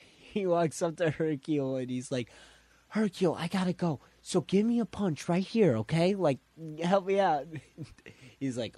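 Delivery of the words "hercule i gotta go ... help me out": urgent plea. Retold or imitated. Goku urgently asking Hercule for help.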